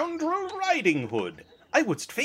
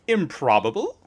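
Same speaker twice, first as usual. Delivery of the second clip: deep punchline voice; 9 semitones lower than usual. Acted.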